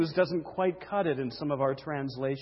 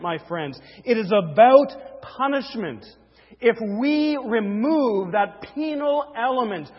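raised, emphatic pulpit delivery; forceful preaching; 6 semitones higher, 7 dB louder than usual. Real, not acted. Preacher insisting the cross is punishment, forceful preaching. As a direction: drive the doctrine home to the congregation.

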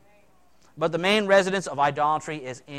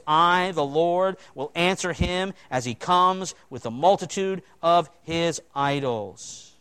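solemn scripture; slower than usual. Acted. Reading God's words.

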